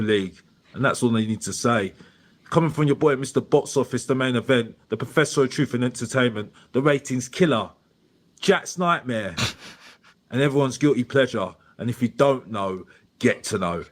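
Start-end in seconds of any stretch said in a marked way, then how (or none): 2.5-11.5 grand entrance announcement. Acted. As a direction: ring announcer hype intro. Signs off with self-hype titles.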